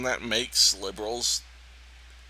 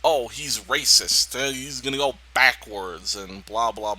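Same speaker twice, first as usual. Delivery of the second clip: mock outraged accusation; 3 semitones lower than usual. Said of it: "When a conservative says it, it's".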